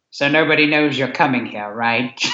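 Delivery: understated deadpan movie quote; near deadpan. Retold or imitated. Guest retelling Karloff's reply to Lugosi, near deadpan. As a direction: imitate an actor's dry, casual delivery lightly. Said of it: "he almost deadpans".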